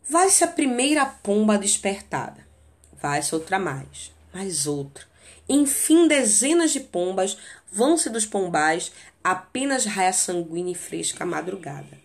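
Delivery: a teacher reciting a melancholy sonnet; poem reading. Acted. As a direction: read the verses like a recital. Reads the sonnet aloud.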